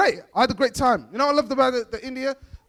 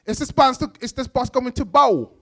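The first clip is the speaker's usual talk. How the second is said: mock roadman question; imitated London youth. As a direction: ask it like a street youth. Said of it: "he thought that I speak like him".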